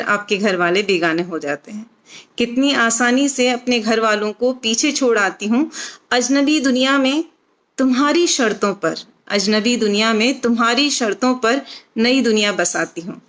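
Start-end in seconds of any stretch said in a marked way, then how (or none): 2.4-13.2 measured, phrased verse reading with short pauses; expressive Hindi poem recitation; poetry recital. Acted. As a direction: recite it line by line, lifting each opening and letting the endings drop. Recites her own poem.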